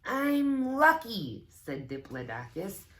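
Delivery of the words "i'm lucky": very high, loud and slow, delighted; excited squeal. Acted. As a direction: squeal it out like a proud little dinosaur. Character quote in read-aloud.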